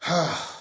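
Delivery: short breathy sigh; real exasperated sigh. Real, not acted. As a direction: let out a disheartened sigh. Disheartened by the comments.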